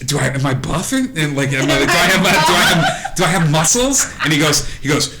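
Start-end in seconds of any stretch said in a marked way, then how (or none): 0.1-4.1 high, fast nerdy whining; whiny nerd. Acted. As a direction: babble insecurely about muscles. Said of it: "and Barry's like".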